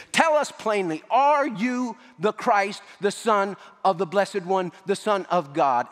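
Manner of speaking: pressing high-pitched retold demand; frustrated demand. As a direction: push the question as a fed-up high priest. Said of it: "he was just so frustrated".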